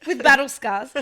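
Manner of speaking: slow, high, mock-grand proclamation breaking into laughs; mock dramatic. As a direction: announce it like an epic return, laughing.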